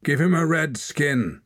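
high loud jeer; bay for blood from the stands; jeering crowd man. A narrator's reading. Watcher urges Hord to bloody him, loud high jeer.

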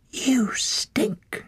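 disgusted whisper. A narrator's reading. Ren whispering to Torak in the mound, whispered. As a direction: whisper it with distaste. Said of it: "she whispered".

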